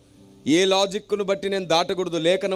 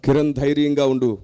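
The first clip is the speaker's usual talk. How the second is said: lower, louder, slowing divine voice; voice of the Holy Spirit; 6 semitones lower, 4 dB louder than usual. Retold or imitated. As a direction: speak as God within him, steady and assuring. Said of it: "పరిశుద్ధాత్మ దేవుని స్వరం".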